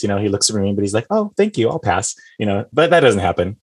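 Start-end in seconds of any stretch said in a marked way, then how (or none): 1.1-2.1 light, high thank-you, settling down to decline; super nice. Acted. Retelling a guest who declines a drink, super nice. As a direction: imitate a very polite refusal. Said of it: "he's, like, super nice".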